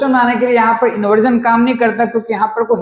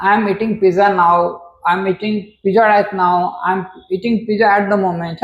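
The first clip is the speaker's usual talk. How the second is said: slow example sentences; 2 semitones lower, much slower than usual. Shown as a demonstration. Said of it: "teacher reads example sentences slowly".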